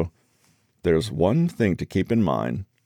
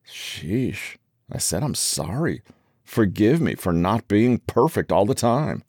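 grudging, resentful sorry; stinging apology; 3 semitones higher than usual. Acted. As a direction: apologize with a barb. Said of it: "an apology with a sting in the tail".

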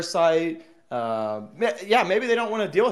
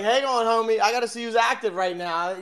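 mocking imitation; 5 semitones higher than usual. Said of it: "you're like".

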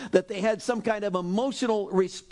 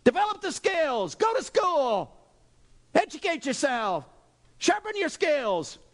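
high, mock-yelled orders to work harder; boss yelling; 6 semitones higher than usual. A preacher imitating a boss yelling at a worker. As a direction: push like a demanding boss. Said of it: "Your boss will yell at you".

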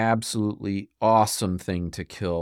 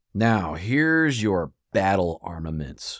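drill sergeant; 3 semitones lower, slower than usual. Acted. Military battle talk, shouted orders.

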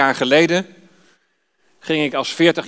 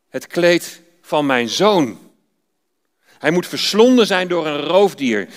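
mournful cry. Acted. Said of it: "riep uit".

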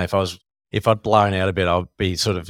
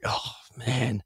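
laughing dismay; 5 semitones higher than usual. Retold or imitated. Retold dismay at new opponent.

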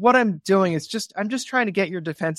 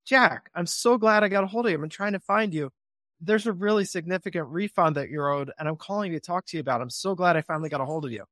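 happy caller greeting. Shown as a demonstration. Caller greeting a skip-traced owner, happy and eager. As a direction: sound truly glad to reach him. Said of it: "If I were calling you, I'd say".

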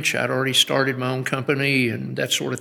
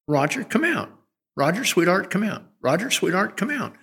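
put-on coaxing a child; 4 semitones higher than usual. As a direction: sweetly coax the boy out of hiding. Coaxing hidden son in store.

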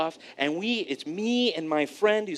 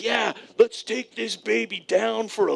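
mock calm pilot; 4 semitones higher than usual. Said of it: "trying to break his composure".

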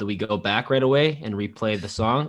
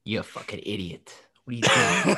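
a hint of New York mobster; lightly voiced Gordon Ramsay gone New York; New York accent; 2 semitones lower than usual. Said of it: "I didn't know he's from New York".

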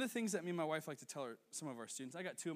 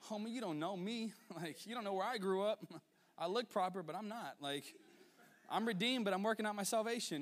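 tough dad inner voice; 6 semitones higher than usual. Retold or imitated. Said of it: "I'm like".

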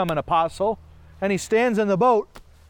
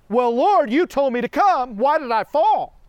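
whiny complaint; 4 semitones higher, 5 dB louder than usual. Pretend. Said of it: "it'd be like".

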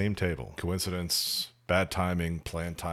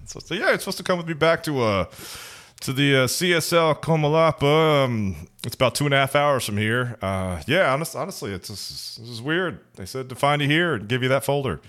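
much higher, louder hammed-up Latin American accent; good accent; 7 semitones higher, 6 dB louder than usual. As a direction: play the officer with a big over-the-top Salvadoran accent. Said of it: "Keep it going".

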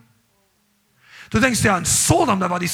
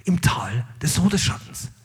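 much softer, lower whisper, slow; mock whisper; 9 semitones lower, 6 dB quieter, slower than usual. Preacher whispering a verse the Bible never says. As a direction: hush it as a false verse. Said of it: "Die Bibel sagt nicht".

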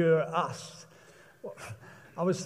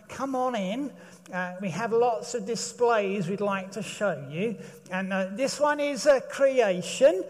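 museum guide; 2 semitones higher than usual. Retold or imitated. Caricature museum guide greeter.

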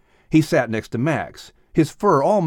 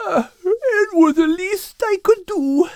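put-on higher, tired Irish-accented cat. Al explaining his night's work, Irish accent. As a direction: explain wearily with a brogue.

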